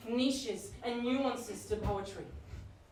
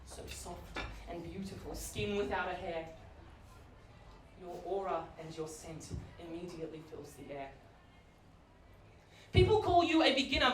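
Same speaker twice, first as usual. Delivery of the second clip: mock love poem. Comedian reading a love poem to the crowd, swooning. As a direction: breathe it like a tender love poem.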